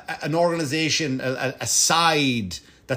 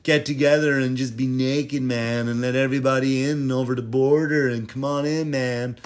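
a hint of a mellow peace-and-love dude; stoner hippie. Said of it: "the liberal guy was always".

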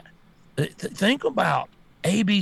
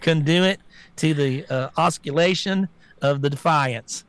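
mocking the press secretary. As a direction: parody a flustered spokeswoman fumbling with nonsense words. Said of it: "She's like".

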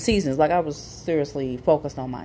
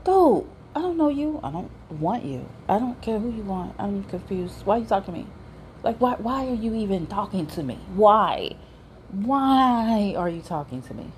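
exasperated retort; 5 semitones higher than usual. Retold or imitated. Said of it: "I'm like".

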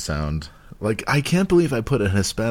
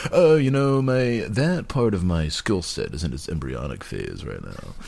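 mock interview voice. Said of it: "the shit I say in job interviews".

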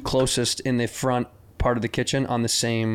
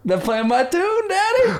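slow and much higher, ending in a very high Daddy; mock sultry. Joking that his pet peeve is mentioned, high slow mock coo. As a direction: coo it like a hammed-up diva. Jokey song cue bit.

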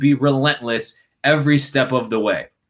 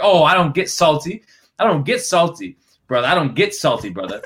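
higher-pitched imitation of indignant denial; mock salty denial; 5 semitones higher than usual. Player denying to reporter he is salty, mock indignant denial. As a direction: insist on it, a touch put out.

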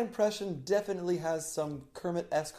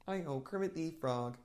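too little tongue clench; 12 dB quieter than usual. Shown as a demonstration. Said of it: "Too little".

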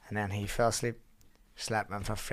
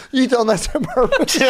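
mock accusation; 13 semitones higher, 10 dB louder than usual. Friend accusing.

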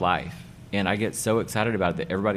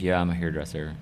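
lethargic; 3 semitones lower than usual. Retold or imitated. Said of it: "with a lethargic attitude".

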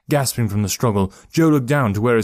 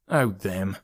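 snorting dismissively; 3 dB quieter than usual. Acted. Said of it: "snorted Odie".

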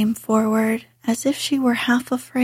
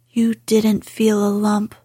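fierce. Acted. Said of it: "contradicted Mary fiercely".

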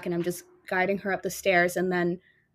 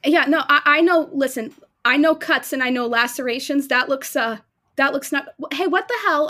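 higher and louder, pressing worry; urgent concern; 4 semitones higher, 5 dB louder than usual. Acted. Faye confronting Ella about her wounds, urgent worry. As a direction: insist she knows wounds.

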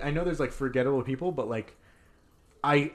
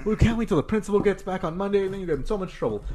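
higher-pitched imitated threat, rushing at the end; scolding teacher; 5 semitones higher, faster than usual. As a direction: warn a pupil like an angry teacher. Acted threat from the angry teacher.

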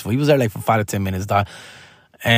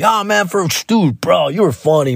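Joy Coy voice; 5 semitones higher than usual. Retold or imitated. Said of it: "He's like".

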